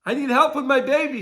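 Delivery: high pleading cry for help; retold desperate scream. Friend crying out at Kever Rachel for the baby, high desperate pleading. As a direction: call out to Mama Rachel in desperation. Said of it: "she started to scream".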